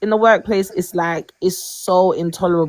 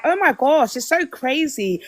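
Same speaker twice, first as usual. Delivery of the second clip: amazed co-worker imitation; 6 semitones higher than usual. Acting out co-workers' reaction.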